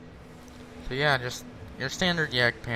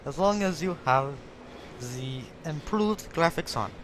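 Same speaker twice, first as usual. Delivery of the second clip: mock Russian accent; 4 semitones higher than usual. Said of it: "I'm screwed a Russian accent".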